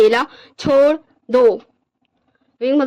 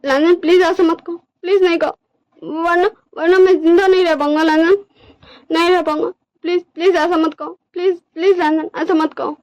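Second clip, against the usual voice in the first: distressed, pleading character voice, mildly raised; pleading Wing; 5 semitones higher than usual. Acted. Wing begs Lanjan not to reject their love, pleading. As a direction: plead urgently, stumbling over repeated words. Plays Wing begging partner.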